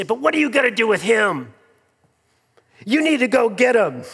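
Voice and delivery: a hint of a child pleading with a parent; half-playful child voice pushing for payback; mild imitation of a whiny kid; lightly voiced insistent child. Child demanding revenge on brother.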